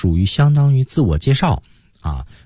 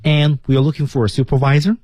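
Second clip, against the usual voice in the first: raised, self-important pitch; lofty high tone; 5 semitones higher than usual. Shown as a demonstration. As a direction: speak as if above them. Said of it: "高高在上的一种感觉". (高高在上的语调)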